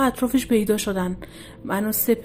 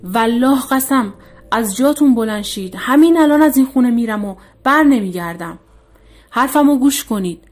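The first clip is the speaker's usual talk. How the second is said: عصبانیت شدید؛ بلند و خشمگین تهدید کن؛ با عصبانیت شدید، بلند؛ تهدید خشمگین و بلند; 3 semitones higher, 8 dB louder than usual. A narrator's reading. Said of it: "با عصبانیت شدیدی گفت".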